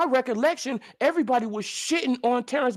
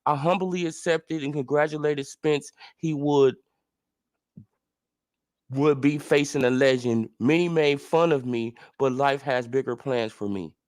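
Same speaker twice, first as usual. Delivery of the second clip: mocking impression of Ugas; 9 semitones lower than usual. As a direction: drag it out in a low, pompous mock-humble tone. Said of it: "So this is what he says".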